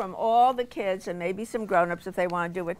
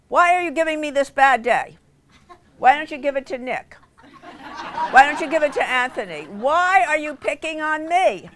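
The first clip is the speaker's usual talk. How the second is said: put-on a child's indignant complaint, louder; mock angry kid; 4 semitones higher, 4 dB louder than usual. Son protesting to his mother, indignant and loud. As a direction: whine it like a wronged little boy. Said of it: "he got so mad at me".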